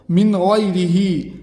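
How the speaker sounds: slow reading, clear नून before गैन; slow clear reading of मिन गैरिही; izhar recitation. Shown as a demonstration. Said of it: "इजहार होगा".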